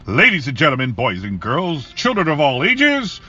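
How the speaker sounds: booming ring announcer, building to a roar; WWE announcer voice. Pretend. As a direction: hype it up like a wrestling ring announcer. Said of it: "I'm gonna do my W W E announcer voice".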